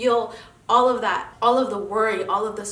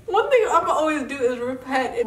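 laughing, a little louder; 5 semitones higher, 4 dB louder than usual. Real, not acted. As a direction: crack up while repeating it. Says it, then repeats laughing.

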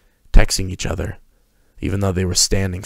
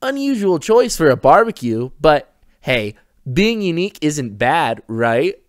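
high, sing-song polite voice; a cheery host covering awkwardness; bright smiling hostess; 8 semitones higher than usual. A narrator's reading. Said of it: "smiled Harper".

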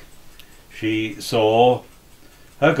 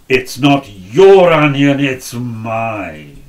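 put-on angry old woman; 7 dB louder, slower than usual. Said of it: "She began to kick and shout".

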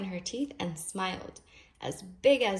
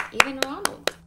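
excited; 6 semitones higher, 8 dB louder than usual. A narrator's reading. Children ooh and aah.

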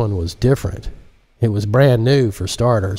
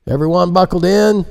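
pilot voice; 9 semitones higher, 3 dB louder than usual. Acted. Pilot speaks over headset.

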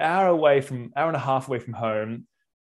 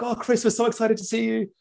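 much higher voice playing the happy groom; mock excited groom; 9 semitones higher than usual. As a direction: play the groom, gushing hello. Voicing the groom's welcome.

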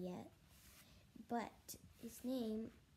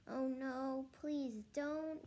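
higher, mildly alarmed plea; pleading; 4 semitones higher, slower than usual. Acted. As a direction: beg off in a raised voice. Boy pleads against cold water.

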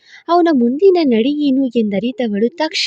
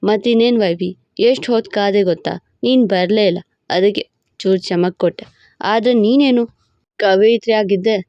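lower, playful husband teasing his wife; 3 semitones lower than usual. Acted. Husband teasing his wife in bed, lower playful voice. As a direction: tease her like a cocky husband.

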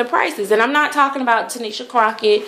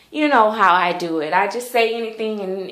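ordinary talk

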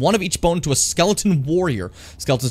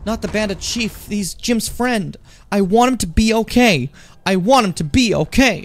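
high, slow whiny mock pleading, pushed louder at the end; mocking worried chat; 8 semitones higher, 4 dB louder, slower than usual. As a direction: whine like panicked fans begging to save him. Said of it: "I saw you guys all freaking out being like".

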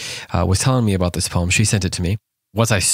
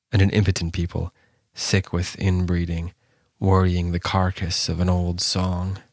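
poem reading. Acted. Reads the poem aloud.

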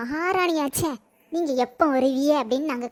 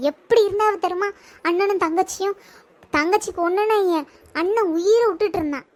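heated accusation; 3 semitones higher than usual. Acted. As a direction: pile the blame on her. Mother-in-law accusing daughter-in-law.

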